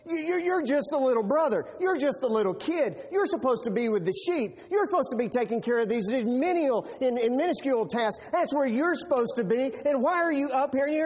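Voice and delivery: mock big-brother scolding; condescending brother. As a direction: put the kid in his place.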